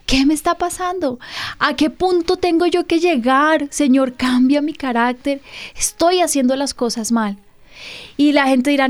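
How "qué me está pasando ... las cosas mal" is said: tearful prayer. Retold or imitated. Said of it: "me puse a llorar".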